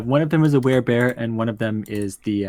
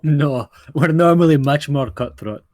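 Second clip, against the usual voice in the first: slow theatrical villain menace. Acted. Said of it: "you sound like a villain".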